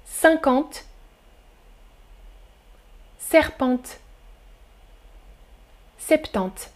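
cinquante, serpente, septante each said alone, slow and soft; listening quiz read. Shown as a demonstration. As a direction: read the options slowly with pauses. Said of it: "Écoutez". (lecture lente et douce des options)

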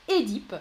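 Édipe with a closed é, the classic way. Shown as a demonstration. Teacher confirming the classic answer, closed é-dipe. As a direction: say Édipe as é-dipe, the traditional form. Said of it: "ça c'est la prononciation classique".

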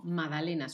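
MAGDALENAS without the G, as "madalenas"; silent G. Shown as a demonstration. Explaining a spelling exception, magdalenas with a silent G. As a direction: skip the written G in MAGDALENAS. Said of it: "pero en este caso no".

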